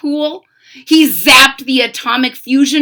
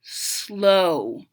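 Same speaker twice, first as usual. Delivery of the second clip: slow frog croak; 6 semitones lower, 4 dB quieter, much slower than usual. Acted. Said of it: "a long, slow ribbit".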